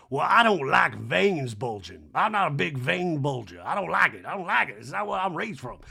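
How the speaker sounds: mock genteel distaste, drawled; Sutton. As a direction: draw the words out with big swoops. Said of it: "Sutton to Kyle in the scene is like".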